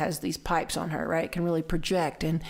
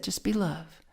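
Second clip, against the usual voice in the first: calm. Retold or imitated. Teacher's calm answer to panic.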